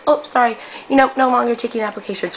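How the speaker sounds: high, put-on prim rejection; mock website voice. Mocking the site that rejected her, put-on voice. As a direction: play the website coldly turning her away.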